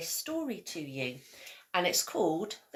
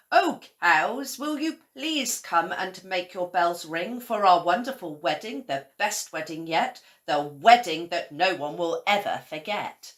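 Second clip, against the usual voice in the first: louder hopeful plea; calling to the cows; 7 dB louder than usual. A narrator's reading. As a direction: invite the cows brightly. Scarecrow asks cows.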